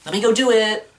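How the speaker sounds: high, whiny mock girl voice; put-on falsetto pleading; Gwen Stacy. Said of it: "Gwen was like".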